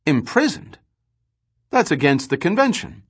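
put-on a young trader's startled indignation; jolted into anger. A narrator's reading. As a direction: flare up in shocked anger at the news. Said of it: "Gorm's expression jolted into anger".

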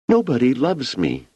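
put-on high, tearful little-girl voice; a hurt child near tears; trembling lip. A narrator's reading. Young Wanda tells Uncle Hugo nobody loves her, trembling. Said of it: "her lower lip trembling".

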